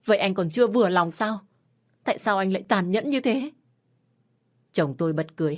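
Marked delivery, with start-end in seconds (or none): 0.0-3.5 loud, higher, desperate outburst; wife pushing her husband away, shouting. Acted. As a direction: finally snap and shout back. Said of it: "Tôi đã hét lên".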